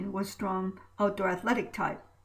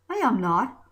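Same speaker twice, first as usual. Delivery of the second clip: insistent; 2 semitones higher, 6 dB louder than usual. Acted. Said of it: "Kurt insisted".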